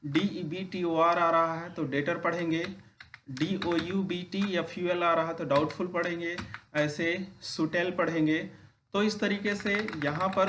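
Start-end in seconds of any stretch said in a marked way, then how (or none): 1.8-2.2 "डेटर" with no B before the T; silent B. Shown as a demonstration. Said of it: "उसका उच्चारण सामान्यतः नहीं करते हैं". 5.5-5.9 "डाउटफुल" with no B before the T; silent B. Shown as a demonstration. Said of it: "उसका उच्चारण सामान्यतः नहीं करते हैं". 7.4-7.9 "सुटेल" with no B before the T; silent B. Shown as a demonstration. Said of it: "उसका उच्चारण सामान्यतः नहीं करते हैं".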